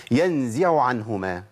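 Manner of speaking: تلاوة بطيئة لـ"ينزع عنهما"; رتل ببطء ووضوح; slow recitation. Shown as a demonstration. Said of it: "طب نسمع". (تلاوة مرتلة)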